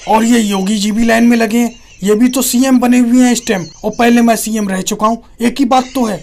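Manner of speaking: lightly acted aggrieved challenger; touch of mock political indignation; protesting younger politician. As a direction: argue your case to an elder leader.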